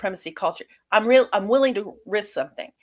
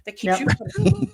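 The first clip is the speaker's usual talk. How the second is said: put-on high, chirpy valley girl tone; white girl voice; 11 semitones higher than usual. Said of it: "that's my white girl voice".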